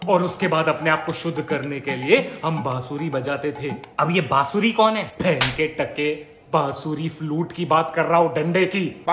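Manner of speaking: lightly voiced dad correcting his son; exasperated storytelling dad.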